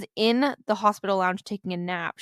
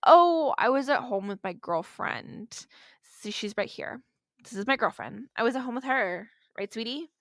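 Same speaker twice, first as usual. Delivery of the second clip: put-on suspect boyfriend; 3 semitones higher than usual. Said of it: "Do you like my impressions?".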